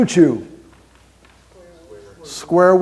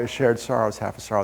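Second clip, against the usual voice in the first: "A shared sorrow is half a sorrow" said softer and lower, heartfelt; softer sincere; 4 semitones lower, 6 dB quieter than usual. Shown as a demonstration. Speaker to crowd, softly and sincerely repeating his motto. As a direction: let "sorrow" drop softly, sincere and quieter. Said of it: "printed on the back of my business cards".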